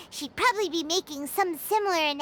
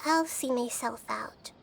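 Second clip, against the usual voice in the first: mock sulking; 5 semitones lower than usual. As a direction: pretend to be hurt, trailing off as you leave. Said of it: "She's sulking".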